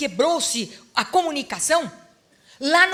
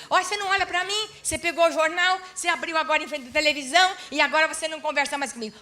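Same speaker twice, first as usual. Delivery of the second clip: higher, rushed complaining, a hammed-up nagging wife; mock nagging wife; 4 semitones higher, much faster than usual. Wife nagging tired husband.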